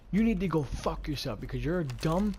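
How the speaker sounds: mild mock yell; retold screaming. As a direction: replay a furious put-down without full volume. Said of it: "I was screaming at him".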